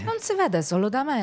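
put-on Italian with a Sicilian accent; deadpan in a Sicilian accent. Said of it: "una veronese che va all'accento siciliano è un doppio carpiato".

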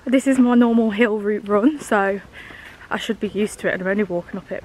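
panting between words; winded, talking while climbing; out of breath. Real, not acted. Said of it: "I don't know why I'm out of breath".

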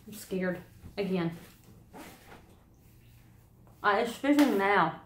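speaking around dissolving sweet; talking with candy in mouth. Real, not acted. Seen 2: red candy seen on tongue at 1.3-2.2; mouth working throughout.

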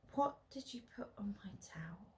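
fast whispered question; quiet. Acted. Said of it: "she asks quietly".

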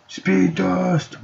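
power-move call. Pretend. Player invoking the speed power, high showy call. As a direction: announce the power in a high held pitch. Calls out the power just named.

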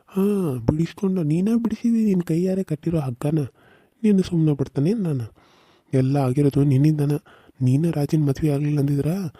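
loud, accusing outburst; angry accusation. Acted. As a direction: throw the blame at her in fury. Son accuses mother in quarrel. (ಕೋಪದಿಂದ ಜೋರಾಗಿ ಆರೋಪಿಸುವುದು)

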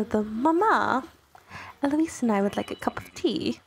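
amateur attempt at Bridgerton British; bad British accent. Vlogger imitating Bridgerton ladies asking for tea, shaky-attempt British accent. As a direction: have a playful go at a British accent. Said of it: "do a British accent".

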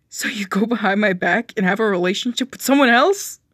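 accusing. Acted. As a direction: throw the betrayal back at him. Hurt partner accuses cheater.

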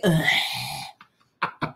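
long drawn-out "ugh"; disgusted groan. Real, not acted. Whisky novice reacts to the taste, disgusted groan. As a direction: groan at a foul aftertaste.

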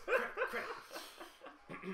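very high, unvoiced hurried hiss; urgent hiss. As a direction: hurry them along under breath. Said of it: "He goes".

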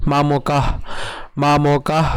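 মামকাহ ending in a breath of h; visarga pronunciation. Shown as a demonstration. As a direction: say মামকাহ with no vowel after the h. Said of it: "not মামকাহা".

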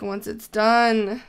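"once" drawn out with emphasis; stress on once. Real, not acted. Hoping the dome will be epic, stressing "once". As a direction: lean on the word "once". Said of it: "Big emphasis on, on the word once".

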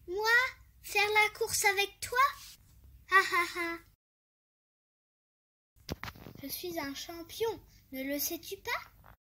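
boastful hare cackling; mocking hare. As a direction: laugh off the challenge. Hare laughing at the tortoise.

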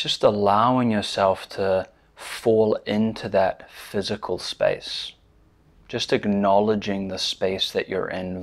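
measured guiding voice with long pauses; unhurried meditation instruction, leaving space after each phrase; guided meditation. Real, not acted. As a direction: lead them gently into stillness, pausing between phrases.

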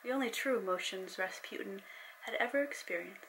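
steady storyteller reading; story narration. A narrator's reading. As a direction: read it like an audiobook. Reads her novel aloud.

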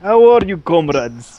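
put-on Russian accent. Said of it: "don't care for your Russian accent".

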